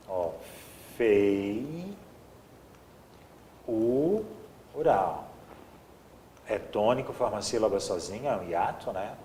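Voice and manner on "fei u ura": "fei, u, ura" held and separated by long pauses; syllable by syllable. Shown as a demonstration. Teacher dividing feiura for the class, syllable by syllable. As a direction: draw out "fei", isolate "u", then finish with "ura".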